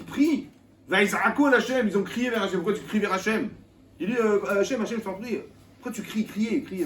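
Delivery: high, loud pleading cry. Retold or imitated. Preacher acts the Hebrews crying to Hashem, high and loud. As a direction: cry out to God in despair.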